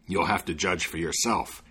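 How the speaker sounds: low, sinister devil voice; low looming threat. Acted. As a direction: lean in like the devil bargaining. Devil sets the bargain.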